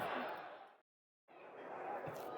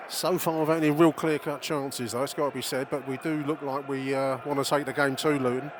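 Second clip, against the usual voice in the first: ordinary delivery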